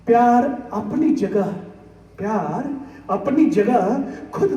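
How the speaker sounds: measured Hindi verse recitation with dramatic pauses; poetry recitation. Acted. Reciting film song lyrics to a poetry gathering, as solemn verse. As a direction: recite it line by line, letting phrase ends fall.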